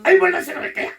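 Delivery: high, sharp, exasperated burst; testy and high-pitched, demonstrating the wrong tone; irritated intonation. Shown as a demonstration. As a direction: say the excuse as if annoyed. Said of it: "이러면 또 신경질 나는 거니까".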